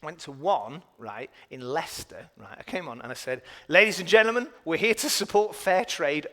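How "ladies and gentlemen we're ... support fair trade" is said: compère announcement. Retold or imitated. Comedian opening a church show.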